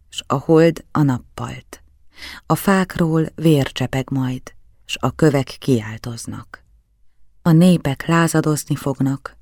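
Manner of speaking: measured prophetic recitation, each phrase set apart; slow, articulated reading. A narrator's reading. Child reading an old prophecy from gothic print, slow and articulated. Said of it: "tagoltan olvasni kezdtem".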